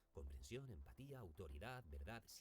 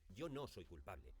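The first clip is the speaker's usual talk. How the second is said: weight on "no", then a falling close; stress on NO; 2 semitones lower than usual. Shown as a demonstration. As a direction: lean on the word "no". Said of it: "Es igual si acentuamos no, o soy, o yo".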